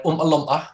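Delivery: "Oompa Loompa" in broad Geordie, open a endings; "Oompa Loompa" with Geordie oom sounds and open final a; Geordie vowels. Shown as a demonstration. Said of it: "what's the other ones".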